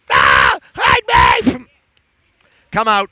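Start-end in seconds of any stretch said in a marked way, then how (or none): 0.1-1.7 terrified cow shrieks for cover; panicked cow. Acted.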